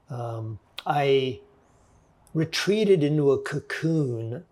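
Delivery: lightly voiced snooty professor; a hint of a pompous academic. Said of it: "sounding very much like a snooty professor".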